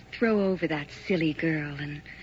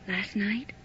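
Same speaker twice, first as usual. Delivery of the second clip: whisper; 3 semitones higher than usual. Acted. Mysterious caller teasing on phone.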